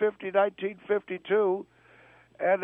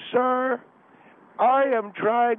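slow, slurred speech; slurring words; 3 semitones higher, 4 dB louder, slower than usual. Acted. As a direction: slur it like you're tipsy. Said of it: "sounded like you were slurring your words".

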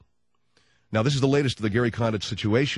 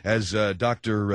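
ordinary delivery

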